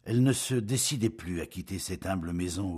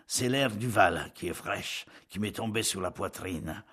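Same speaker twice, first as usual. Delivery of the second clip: dragging words. Acted. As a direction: drag the words out wearily. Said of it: "Il traînait ses pas et ses paroles".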